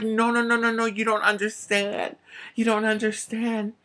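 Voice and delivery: high, pressing insistence; urgent insistence. Retold or imitated. Fortune teller insisting to the laughing child. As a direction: insist urgently that they don't get it.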